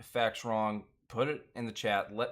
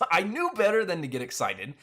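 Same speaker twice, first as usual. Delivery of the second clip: higher, insistent and worked up; exasperated self-blame; 6 semitones higher, 5 dB louder than usual. Real, not acted. Host insisting to viewers it's his fault, exasperated self-blame. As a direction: push the admission home, pitch riding high.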